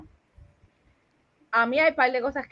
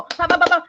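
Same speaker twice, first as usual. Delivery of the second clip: raised, punchy rhythmic sound effect; imitated rapid thrusting; 5 semitones higher, 4 dB louder than usual. Woman mocking a too-excited partner, punchy sound effect. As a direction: pop out quick mock thrust noises. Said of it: "and then they go".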